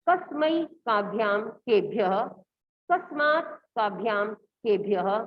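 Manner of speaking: teacher modelling Sanskrit pronunciation; careful pronunciation demo. Shown as a demonstration. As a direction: recite the forms slowly for students to copy. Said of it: "दोबारा से आप इसका pronunciation देखिए".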